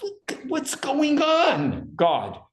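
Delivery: high, drawn-out cry of alarm; screamed-out plea. Shown as a demonstration. Teacher shows how she says look, screamed-out plea. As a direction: cry it high in horror, dropping at the end. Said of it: "when you say, "Look," it's like this".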